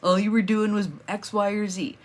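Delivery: a lightly voiced belittling inner critic; dismissive inner voice. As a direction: brush off the win like it was nothing. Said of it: "that little voice jump in and go".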